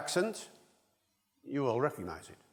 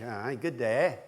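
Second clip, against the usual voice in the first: Yorkshire accent; slower than usual. Shown as a demonstration. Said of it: "We're up Yorkshire way now".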